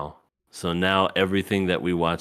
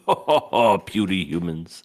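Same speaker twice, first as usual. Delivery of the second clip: booming arrogant alien overlord; 4 dB louder than usual. Retold or imitated. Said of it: "on his high horse with his arms folded going".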